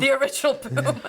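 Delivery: amused echo with a laugh; laughing at the joke. Real, not acted. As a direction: repeat it through a laugh.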